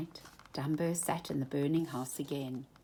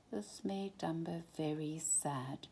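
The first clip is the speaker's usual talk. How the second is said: hushed whisper; softly whispered narration; 8 dB quieter than usual. A narrator's reading. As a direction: whisper the sad news. Sad moment in story.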